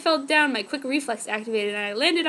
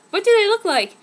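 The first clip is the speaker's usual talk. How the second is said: excited question; 8 semitones higher, 7 dB louder than usual. Acted. Confused question mid-battle.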